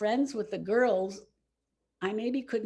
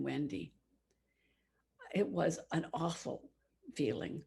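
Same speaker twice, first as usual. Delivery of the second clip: quiet regret; 4 dB quieter than usual. Real, not acted. Regretful confession.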